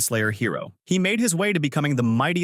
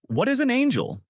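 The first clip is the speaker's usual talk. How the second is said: put-on much higher, questioning little girl; confused girl; 13 semitones higher than usual. A narrator's reading. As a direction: ask it high-pitched and puzzled. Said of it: "the girl asks confused".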